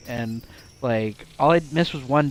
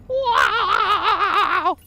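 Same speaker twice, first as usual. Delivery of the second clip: high laughing wow; 6 dB louder than usual. Real, not acted. Amazed reaction, laughing.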